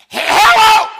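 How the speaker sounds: high, loud, startled blurt on the phone; startled hello. Retold or imitated. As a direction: jump out of your skin and answer.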